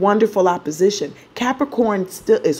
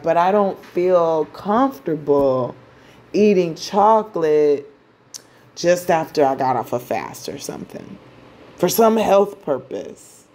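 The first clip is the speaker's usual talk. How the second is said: fussy Virgo moon. Acted. Venus wants chocolate, the Virgo moon gently objects, lightly voiced. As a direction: play the picky Virgo moon without pushing it. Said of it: "the moon is in Virgo".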